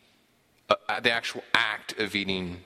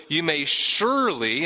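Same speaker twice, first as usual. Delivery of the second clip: "surely" leaned on, higher-pitched; stress on surely; 5 semitones higher, 3 dB louder than usual. Acted. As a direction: put clear emphasis on "surely". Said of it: "this emphasis on".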